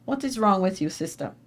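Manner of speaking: imitating a thick Jamaican accent. Jamaican woman to the crying newcomer at JFK, Jamaican accent. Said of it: "with a thick Jamaican accent".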